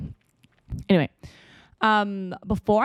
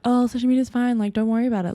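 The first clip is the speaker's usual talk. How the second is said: dismissive voice; 6 semitones higher, faster than usual. Pretend. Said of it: "versus be like".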